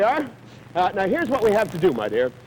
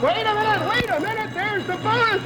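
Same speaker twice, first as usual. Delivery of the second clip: much higher, a burst of game-show excitement; sudden excitement; 12 semitones higher than usual. Real, not acted. Host halting the contestants for the bonus question, excited. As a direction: stop everything, the bonus is here.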